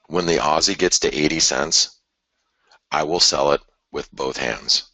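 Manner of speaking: emphatic, carefully separated phrases; slow and clear. Real, not acted. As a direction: make it unmistakable, pausing before the key statement. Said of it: "let me say this really slowly, but very clearly".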